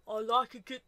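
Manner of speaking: put-on botched Cockney accent, slipping towards Australian; Danny Dyer attempt. Co-host attempting a celebrity's Cockney accent, badly done. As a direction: have a shaky go at a Cockney accent. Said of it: "sound like Danny Dyer".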